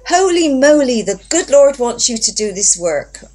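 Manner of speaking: high, loud burst of delight; overjoyed friend's exclamation; excited exclamation. Retold or imitated. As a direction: gasp it out with joy.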